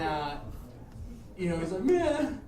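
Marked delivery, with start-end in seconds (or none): 1.8-2.4 loud, broken-up acted sobbing; mock crying. Crying skinhead gives in to Dave, mock blubbering. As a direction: imitate a beaten guy blubbering his confession. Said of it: "full-blown crying at this point".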